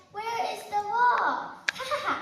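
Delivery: mocking boy laughing; laughing trickster.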